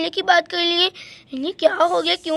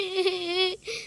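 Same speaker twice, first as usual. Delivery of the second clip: soft sob; 6 dB quieter than usual. Acted. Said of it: "पहले तो आप रोना बंद कर दो".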